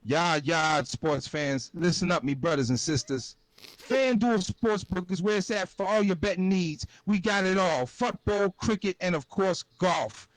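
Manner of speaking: lightly done Jamaican patois ad read; a hint of Jamaican lilt. Shown as a demonstration. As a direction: pitch the ad with a Jamaican accent. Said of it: "let's do this Jamaican patois style".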